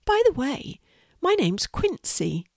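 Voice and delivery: small spider, starting high; high little creature voice. Acted. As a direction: introduce yourself as a tiny spider. Spider introduces himself.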